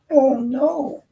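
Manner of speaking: put-on high falsetto oh no, babyish; mock whine. Speaker mocking the safety director in a high baby whine. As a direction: whine it up high like a pouting child.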